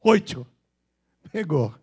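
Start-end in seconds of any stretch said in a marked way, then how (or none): 0.0-0.5 oito with "tch" as "oitcho"; emphatic Bahian "oitcho"; Bahian accent. Shown as a demonstration. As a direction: punch oito like a baiano. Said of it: "Porque o baiano fala oito".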